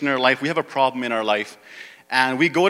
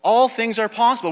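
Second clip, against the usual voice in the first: pitched up, firm challenge; God's reply; 8 semitones higher than usual. Acted. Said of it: "God's saying the same thing to us".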